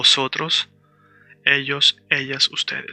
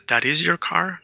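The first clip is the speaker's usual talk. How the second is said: "That is your car" lifted in pitch into a question; statement word order asked as a question, pitch raised; question intonation on statement; 4 semitones higher than usual. Shown as a demonstration. Teacher shows learners the wrong English question, rising question tune. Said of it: "we ask, not".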